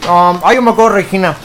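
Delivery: talking with food in mouth; mouth full. Real, not acted. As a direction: speak around a bite. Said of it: "Perdonen que hable con la boca llena".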